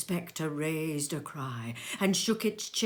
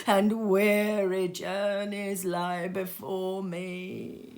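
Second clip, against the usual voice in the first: slow, sorrowful trailing sigh; weary ghost; 4 dB louder, slower than usual. Acted. Ghost telling Scrooge of its journeys, slow and weary. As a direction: let the weariness drag.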